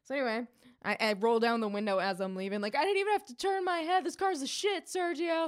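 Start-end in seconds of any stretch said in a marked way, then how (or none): 2.8-5.4 high-pitched, quick, excited brag; thrilled new owner showing off; gleeful boast. Retold or imitated. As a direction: call it out giddily in a raised pitch. Gleeful boast called out the car window.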